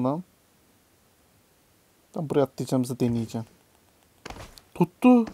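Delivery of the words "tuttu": high, loud burst of relief; excited cheer. Real, not acted. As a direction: celebrate the catch. Relief when grab works. (sevinçle, yüksek sesle)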